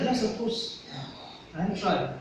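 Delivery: reassuring promise with a falling end; assuring. Shown as a demonstration. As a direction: agree with a nod, meaning it. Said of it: "that means I'm assuring you".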